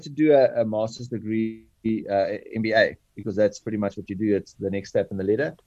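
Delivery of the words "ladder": Afrikaans accent. Real, not acted. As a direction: let the Afrikaans accent slip into "ladder" as "lidder". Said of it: "Sorry, my Afrikaans roots came through there".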